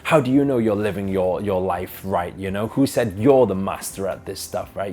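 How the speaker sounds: retold insult with a touch of anger; frustrated heckler. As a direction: imitate an angry man taunting, lightly. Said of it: "the guy got more and more frustrated".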